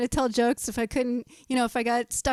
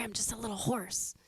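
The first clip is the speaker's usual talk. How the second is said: much softer, hoarse aside; hoarse whisper; 2 semitones lower, 12 dB quieter than usual. Retold or imitated. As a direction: breathe it out, barely voiced. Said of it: "Why are you whispering?".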